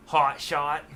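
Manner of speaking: "Hot Shot" laughed out; laughing. Real, not acted. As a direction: chuckle through "Hot Shot". Amused by guitar's name.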